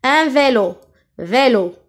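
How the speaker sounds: "vélo" with closed é in the first syllable. Shown as a demonstration. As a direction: model the é of "vélo" clearly. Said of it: "La première syllabe qui contient E". (« vélo » avec é fermé)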